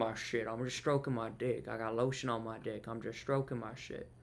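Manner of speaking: lightly voiced viral-video guy; imitating viral video. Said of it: "video of the dude saying".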